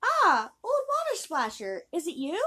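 high, loud, tearful princess; a spoiled princess sobbing at the frog. Acted. Princess greets the frog at the well, high and loud.

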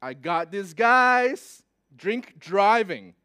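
loud, slow, drawn-out gloating; triumphant policeman. Retold or imitated. Policeman spotting laughing drivers, mock triumph. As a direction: play the officer sure of a catch.

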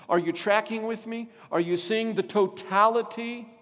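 impassioned sermon delivery; fervent preaching. Acted. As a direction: drive it home to the congregation. Preaching builds to full force.

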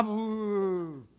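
long exasperated "ooh"; pent-up groan. Acted. Parent too mad to touch the child, exasperated groan. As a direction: groan it out, holding yourself back. Parent holding back fury.

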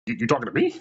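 incredulous, stammered question; taken aback. Retold or imitated. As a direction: ask it as if you can't believe you're being addressed. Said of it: "I'm looking around like".

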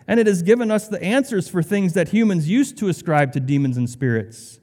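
mock-serious sarcastic questioning. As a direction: say it with dry sarcasm. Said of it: "There's sarcasm in my voice".

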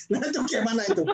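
fast question through a laugh. Real, not acted. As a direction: chuckle while asking. Laughs at own punchline. (tertawa sambil bertanya cepat)

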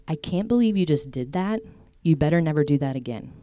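scolding. Retold or imitated. Imagined harsh God scolding sister.

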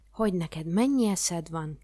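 loud, drawn-out delighted cry; exclaiming king. A narrator's reading. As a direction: call it out slowly and loudly. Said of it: "kiáltott Hapci király". (lelkes, elnyújtott felkiáltás)

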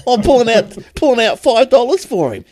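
high-pitched, through real laughter; laughing storytelling. Real, not acted. Teller caught with money in his wallet, laughing as he talks. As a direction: tell it while cracking up.

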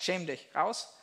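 laut: Schäm dich, raus!; strafender Rauswurf. Retold or imitated. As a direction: wirf das Kind mit einem Ruf hinaus. Strafender Vater weist Kind ab. (laut gerufenes „Schäm dich, raus“ eines strengen Vaters)

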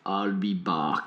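put-on low, slow Austrian accent; deep slow Arnold drawl; Schwarzenegger impression. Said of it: "Schwarzenegger ... said".

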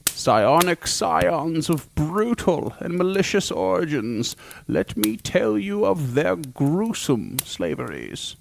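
slow, hushed dramatic narration; ominous slow cold open. Acted. Host opens the monster episode with slow ominous narration. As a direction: draw them in slowly like a dark storyteller.

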